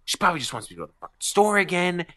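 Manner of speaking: mock fed-up tirade rising in pitch; retold angry rant. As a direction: spit out a building fast rant. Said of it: "So I go".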